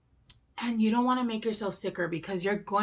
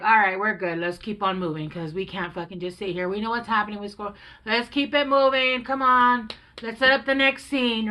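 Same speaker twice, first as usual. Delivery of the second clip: self pep talk; 7 dB louder than usual. Retold or imitated. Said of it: "next day I'm like".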